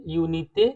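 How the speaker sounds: यूनिटे ending in a clear "ay" like French unité; French pronunciation. Shown as a demonstration. Teacher modelling French unité for students, careful pronunciation. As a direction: say यूनिटे with a bright final é. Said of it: "इसको pronounce कैसे करेंगे?".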